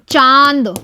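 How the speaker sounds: चांद with only a light nasalised vowel, no full n; light nasal vowel. Shown as a demonstration. Teacher to pupils, modelling चांद with a light nasal vowel. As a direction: say चांद with the air mostly through the mouth. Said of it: "इसमें न पे हमें कम जोर देना है".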